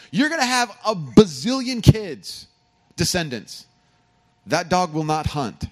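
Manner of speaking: a hint of an incredulous old man; doubting Abram. Abram doubting God's promise, mildly incredulous and slow. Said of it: "he has to be saying".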